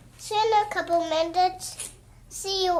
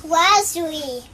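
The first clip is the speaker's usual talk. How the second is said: talking through a mouthful; words round a bite of cracker; mouth full; 2 semitones lower, 6 dB louder than usual. Real, not acted. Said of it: "don't talk with your mouth full".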